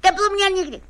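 insistent, alarmed pleading; panicked refusal. Acted. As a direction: refuse the thermometer in dread. Patient protests against the thermometer.

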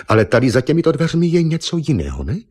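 a hint of a flustered young woman finding herself naked; startled young woman. Naked Eva startled at the painter, a touch of flustered surprise.

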